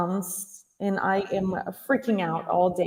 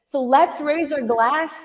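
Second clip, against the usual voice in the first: raising a toast; 5 semitones higher than usual. Retold or imitated. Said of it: "and I said".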